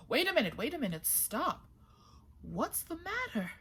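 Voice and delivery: high calls to stop; high urgent call. A narrator's reading. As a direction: halt them in surprise. Fisherman calls to runners.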